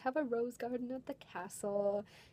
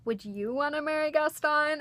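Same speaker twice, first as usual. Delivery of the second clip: higher-pitched, playful princess question; princess asking kids; 6 semitones higher than usual. Acted. Belle asks kids about marrying Gaston, in a high playful princess voice. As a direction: put it to the kids in a raised princess voice.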